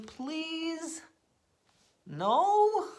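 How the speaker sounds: high, whiny mock begging; high pleading. Reader pleading with the listener, high whiny begging. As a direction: beg like a desperate kid.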